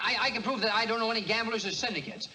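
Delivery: rising panicky stammer; nervous stammer. Acted. Nervous stammering defense, rising pitch.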